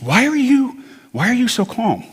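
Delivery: high-pitched retold alarm, incredulous; mock frantic questioning, pitched well up; imitated freak-out. Family member questioning his calm, mock freaking out. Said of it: "My family's freaking out".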